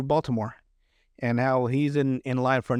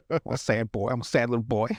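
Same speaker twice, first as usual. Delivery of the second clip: mock sad voice; 2 semitones lower than usual. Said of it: "never seen someone saddy before like that".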